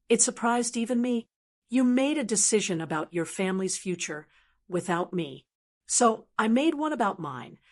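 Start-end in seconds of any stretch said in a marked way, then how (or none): 1.7-7.6 very calm. Acted. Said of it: "my voice was so calm".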